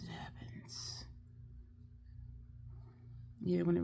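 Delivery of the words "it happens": soft unvoiced whisper, slow; resigned whisper. Real, not acted. Whispering to viewers that her watering eye can't be helped. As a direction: let the words go in a tired whisper.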